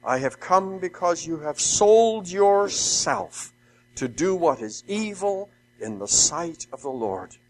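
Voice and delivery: loud, slow, grave pronouncement; stern prophet. Acted. Prophet Elijah condemning King Ahab, slow, loud and stern. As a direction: pronounce judgement slowly. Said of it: "Elijah answered".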